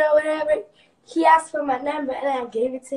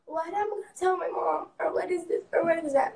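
lightly voiced white girl, higher and softer; mock white girl; 4 semitones higher, 5 dB quieter than usual. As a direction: imitate a fretting white girl, pitched up a touch. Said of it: "tell this shit to a white girl".

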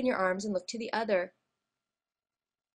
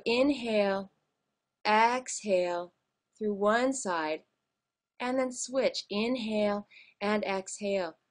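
slow, drawn-out count-in for breathing; slow breathing cue. Shown as a demonstration. Yoga teacher leading alternate nostril breathing, slow and measured. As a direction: stretch each word to pace a breath.

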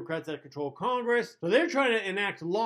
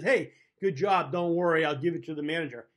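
smug coworker; 2 semitones lower than usual. Retold or imitated. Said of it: "your coworker comes up to you and says".

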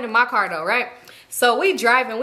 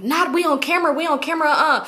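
mock panic; 6 semitones higher than usual. Retold dawning worry about being filmed.

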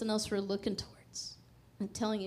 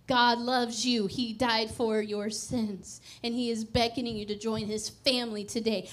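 bold declaration. Retold or imitated. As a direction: re-enact preaching boldly to a crowd. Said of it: "declaring boldly".

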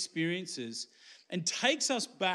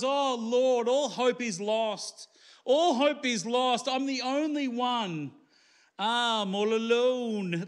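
mock sook; 4 semitones higher, slower than usual. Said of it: "having a bit of a sook".

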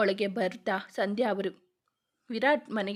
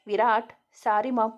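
louder, firm apology that gives no ground; loud defiance; 7 dB louder than usual. Acted. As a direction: burst out, standing firm. Son defies mother in quarrel.

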